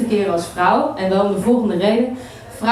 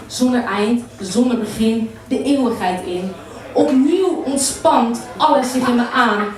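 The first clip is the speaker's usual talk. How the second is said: poetry recital; 3 semitones higher than usual. Acted. Poet recounts the lovers' climax to an audience, building poetry recital.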